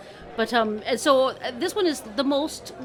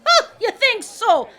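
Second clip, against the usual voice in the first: high, loud mocking laugh in the words; scoffing laugh; 12 semitones higher, 9 dB louder, slower than usual. Two crows laughing at a boaster, scoffing. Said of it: "they kinda laugh upon him".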